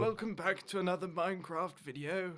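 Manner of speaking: lightly voiced elderly presenter; old-sounding video host. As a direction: welcome viewers like an old posh host. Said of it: "was like that dude from".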